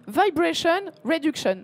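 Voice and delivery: put-on Vibration Reduction in a light American accent, vy-bray-shun. Presenter to photography audience, light American accent. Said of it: "je me suis entraînée pour mon accent américain".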